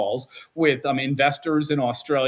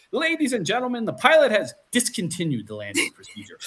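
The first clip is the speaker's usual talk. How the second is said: put-on British accent; 6 semitones higher than usual. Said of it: "in the British accent".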